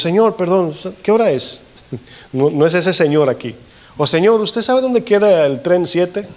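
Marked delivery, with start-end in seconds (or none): 0.0-1.6 higher, offhand "Señor" to a stranger; casual everyday señor. Retold or imitated. Preacher mimicking asking a stranger the time, higher and offhand. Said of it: "Aquí no es como nosotros decimos". 4.1-6.3 higher, unhurried polite question to a stranger; casual everyday señor. Retold or imitated. Preacher mimicking asking a stranger about the train, higher and polite. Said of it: "Aquí no es como nosotros decimos".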